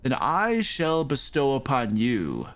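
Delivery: slow, grandly drawn-out priest's bargain; priest making an offer. Acted. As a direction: spell out the offer slowly, with weighty pauses. Game master voices the priest.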